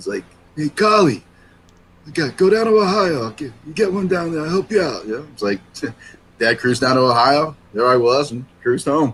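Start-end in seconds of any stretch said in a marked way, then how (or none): 0.6-5.1 streetwise Boston tough-guy voice, pitched up. Retelling how the dad's tough buddy answered his request: imitating Vinny, tough Boston guy. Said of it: "pretty tough guy in Boston days".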